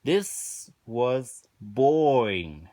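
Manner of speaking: very slow, dragged-out bored verdict; bored drawl. Real, not acted. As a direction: stretch out every word, totally unimpressed. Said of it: "Wow. Just wow".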